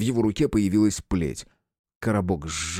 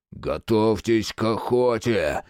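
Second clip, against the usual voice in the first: growled; slower than usual. Acted. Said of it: "прорычал он".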